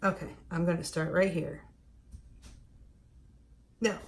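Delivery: normal talking voice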